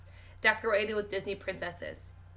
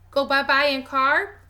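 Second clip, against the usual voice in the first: put-on toddler voice; 5 semitones higher, 8 dB louder than usual. Toddler voice, child asking.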